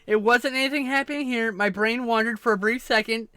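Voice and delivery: high, loud, laughing through the words; giggling embarrassed confession. Real, not acted. Streamer tells friend an embarrassing story, laughing.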